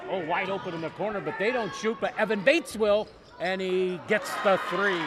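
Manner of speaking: rising excitement as the three drops; excited play-by-play call. Acted. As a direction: build the call as the shot falls. Made three-pointer called live.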